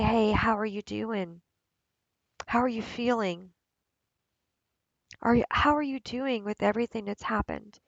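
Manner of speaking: quiet, tender inquiry; gentle check-in. Acted. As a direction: check in kindly with yourself.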